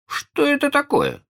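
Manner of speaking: высокий, недоумённый мальчишеский голос; спросить как ребёнок, впервые слышащий слово; удивлённый мальчик. Acted. Питер не знает слова. (Питер не знает, что такое поцелуй, удивлённо)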